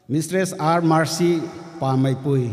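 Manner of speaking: formal name announcement; calling out names. Real, not acted.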